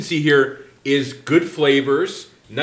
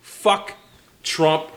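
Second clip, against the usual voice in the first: snarling punk; 2 semitones higher than usual. Pretend. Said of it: "You already said that".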